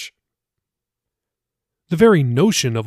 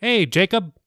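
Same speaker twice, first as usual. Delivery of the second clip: friendly pastor greeting; 6 semitones higher than usual. Acted. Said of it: "Pastor Billy said".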